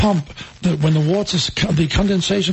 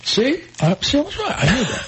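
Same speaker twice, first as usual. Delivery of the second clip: high, triumphant told-you-so; gloating; 8 semitones higher than usual. Real, not acted. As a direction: crow about being right. Gloating over being right.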